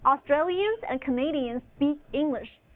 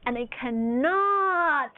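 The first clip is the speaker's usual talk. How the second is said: slow summary; slower than usual. Shown as a demonstration. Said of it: "just remember this".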